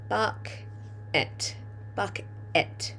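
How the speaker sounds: softly whispered while writing; teacher whispering the word to herself. Shown as a demonstration. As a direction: breathe the word out as you write it.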